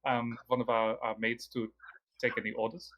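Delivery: lightly voiced El Romior, polite host; lightly voiced scholar NPC.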